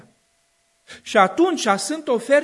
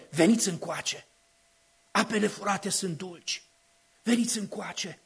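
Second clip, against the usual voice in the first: folly's lure; 2 semitones lower, 6 dB quieter than usual. Acted. Preacher voicing Folly tempting the young, soft lure. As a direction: coax them in quietly like a temptress. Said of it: "strigă nebunia".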